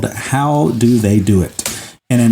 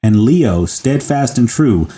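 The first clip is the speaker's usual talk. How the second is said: measured storytelling read; story narration. Acted. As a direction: tell it like a story, unhurried. Reads the story aloud.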